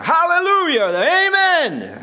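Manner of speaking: joyful loud church shout; calling out hallelujah. Retold or imitated. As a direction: ring it out like a shouting congregation. Preacher calls out worship cries.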